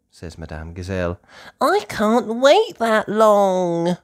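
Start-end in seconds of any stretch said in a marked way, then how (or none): 1.6-4.0 impatient. Acted. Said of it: "says Peppa impatiently".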